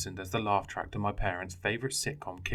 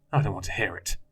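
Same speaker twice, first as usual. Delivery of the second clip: growled; 5 dB louder than usual. Acted. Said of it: "he growled".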